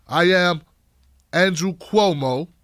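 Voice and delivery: Cuomo impression, slowed down; slow, self-satisfied politician voice; slow motion. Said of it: "I talk in slow-mo".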